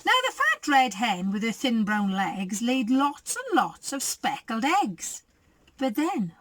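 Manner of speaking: lively storybook reading; reading to children. A narrator's reading. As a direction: read it like a bedtime picture book. Reads picture book aloud.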